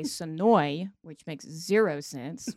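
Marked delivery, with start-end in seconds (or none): 0.0-0.9 Sonoy said slow, clipped to two syllables like a native; local way of saying Sonoya. Shown as a demonstration. Host showing the local name, slowly drawn out. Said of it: "if you're a native of Sonoya, they say".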